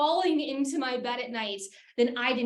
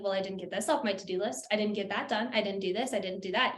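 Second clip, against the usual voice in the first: inner worrier; 5 semitones lower, 5 dB quieter than usual. Acted. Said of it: "being like".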